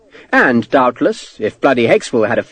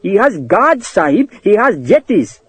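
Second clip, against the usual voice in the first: much higher clerk voice in alarm; frightened clerk; 7 semitones higher than usual. Acted. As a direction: warn the officer in a panic.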